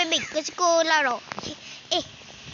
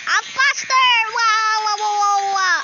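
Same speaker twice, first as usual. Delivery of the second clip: higher, louder thrilled wows; excited; 4 semitones higher, 7 dB louder, slower than usual. Real, not acted. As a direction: cheer at the rush of speed. Thrill at speeding in game.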